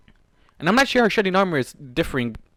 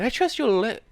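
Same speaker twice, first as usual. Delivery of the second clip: satisfied Swarm; 11 semitones higher, 4 dB louder than usual. Acted. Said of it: "Swarm said, satisfied".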